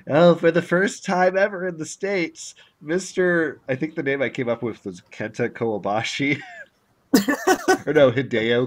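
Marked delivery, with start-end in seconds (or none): 0.1-3.6 announcer in a put-on Japanese accent; hammed-up Japanese accent; fake Japanese accent. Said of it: "fake Japanese accent".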